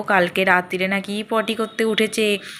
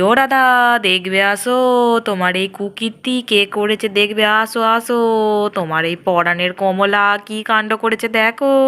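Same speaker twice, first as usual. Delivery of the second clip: calling out. Acted. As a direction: call her over, accusing. Calling Radha to come see.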